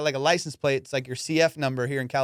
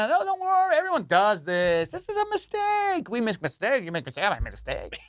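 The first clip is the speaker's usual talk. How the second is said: soothing cop impression; 5 semitones higher than usual. Cop handing out a ticket, mock-soothing voice. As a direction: coo like an officer avoiding a confrontation. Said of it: "they talk like this".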